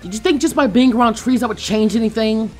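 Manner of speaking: scornful question. Acted. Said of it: "she asked".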